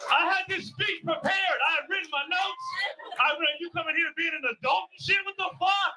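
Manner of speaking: high-pitched indignant complaint; retold hot anger. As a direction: complain like your big moment was ruined. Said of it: "Like, I was hot".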